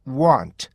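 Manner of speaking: want said short and plain; first variant of want; one way to say want. Shown as a demonstration. Teacher shows one accepted variant to the class. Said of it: "이렇게 발음하기도 하고요".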